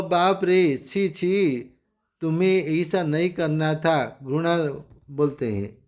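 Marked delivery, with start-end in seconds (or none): 0.0-4.2 a light scolding "chhi chhi", lightly acted; mild disgust. Shown as a demonstration. Teacher showing students how disgust sounds, mildly. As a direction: demo a touch of disgust, not full revulsion. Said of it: "घृणा से बोलते हैं".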